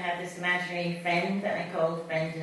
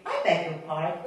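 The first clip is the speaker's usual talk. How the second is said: put-on English accent; 2 semitones lower than usual. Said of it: "he replies in that English way".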